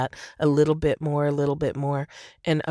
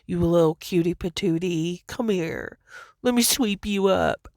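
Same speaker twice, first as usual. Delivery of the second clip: a light, higher, doting voice; sweet angels; 3 semitones higher than usual. Retold or imitated. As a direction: coo at a little one, higher. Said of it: "such a sweet".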